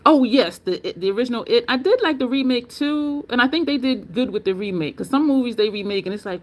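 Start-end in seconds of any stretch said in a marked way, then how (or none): none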